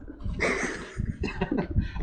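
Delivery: soft airy chuckle; quiet breathy laugh at himself; small giggle over the spoiled bait; real laughter. Real, not acted. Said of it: "I don't know why I'm laughing".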